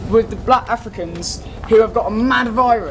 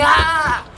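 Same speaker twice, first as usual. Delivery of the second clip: raised mock "Ah" yell; mock scream; 5 semitones higher than usual. Explaining the game villagers, mock scream. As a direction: imitate a wordless scream.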